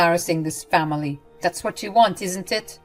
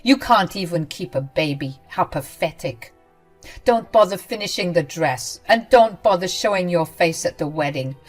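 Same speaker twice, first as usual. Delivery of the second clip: hurtful words; 4 dB louder than usual. Acted. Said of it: "she said some hurtful words".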